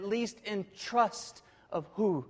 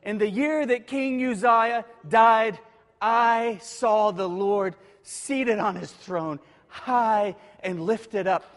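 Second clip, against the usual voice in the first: louder reading with stress on year, then a slow lifted up; full scripture proclamation; 6 dB louder, slower than usual. Shown as a demonstration. Preacher reading the full verse aloud, slow and proclaiming. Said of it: "in the very next verse".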